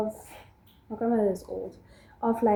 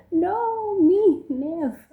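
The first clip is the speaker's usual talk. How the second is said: laughing refusal; 10 semitones higher, much slower than usual. Retold or imitated. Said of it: "And I was like".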